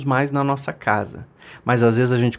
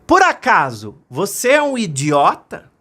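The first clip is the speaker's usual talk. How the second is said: louder, slower echo; mountain echo; 5 semitones higher, 4 dB louder than usual. Acted. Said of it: "a montanha devolveu".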